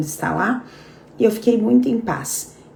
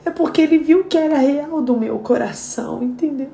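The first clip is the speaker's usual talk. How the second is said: tearful prayer; 5 semitones higher than usual. Real, not acted. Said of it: "eu chorei mais ainda".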